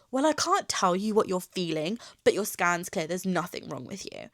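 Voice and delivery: mimicking a dismissive doctor with attitude; retold snippy attitude; full of attitude. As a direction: imitate someone brushing a patient off, full of attitude. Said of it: "with the most attitude in her voice".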